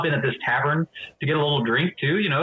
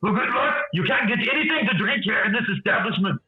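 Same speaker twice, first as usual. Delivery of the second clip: higher, mocking retort; sarcastic Goliath; 7 semitones higher than usual. Goliath scoffing at Drippy from the back. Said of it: "be like".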